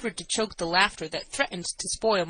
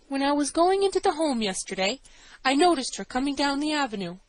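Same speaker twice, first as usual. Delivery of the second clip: high-pitched woman witness; nervous assistant matron; 6 semitones higher than usual. A narrator's reading. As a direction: testify anxiously in a raised voice.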